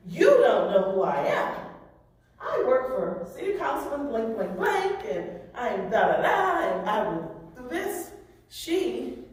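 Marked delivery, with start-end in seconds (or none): 0.1-8.1 arrogant driver. Retold or imitated. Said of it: "says to the officer".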